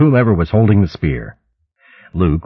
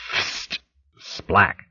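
whoosh and splat; 7 dB quieter than usual. A narrator's reading. Narrator imitates flying weapon hitting tree.

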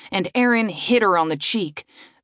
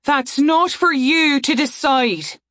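high, slow, firm retort; angry retort; 7 semitones higher, 3 dB louder than usual. Acted. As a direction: snap back angrily. Saria argues.

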